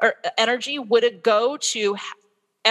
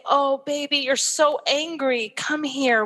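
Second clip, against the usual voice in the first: higher, slow, tender comforting; soothing mum; 5 semitones higher, slower than usual. Retold or imitated. Mother comforting her furious son, higher and slow, tender. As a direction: gently coax an angry child close, slowly.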